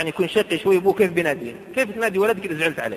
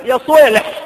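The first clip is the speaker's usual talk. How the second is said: تدليل مقلَّد; 4 semitones higher, 8 dB louder, slower than usual. Retold or imitated. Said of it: "إذا بغى يدلع".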